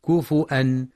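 كفؤا with a glottal stop and damma on the fa; reading with hamza. Shown as a demonstration. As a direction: say كفؤا with a hamza in place of the waw. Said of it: "أو بالهمزة مع ضم الفاء". (كفؤا بالهمزة مع ضم الفاء)

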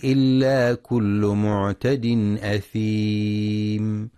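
slow, drawn-out melodic Quran recitation; tajweed recitation. Acted. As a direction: chant the verse slowly, stretching the vowels. (تلاوة مجودة بطيئة)

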